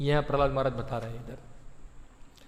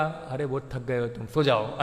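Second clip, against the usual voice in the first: coaxing mind; 4 semitones lower than usual. Retold or imitated. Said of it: "मन बोलेगा".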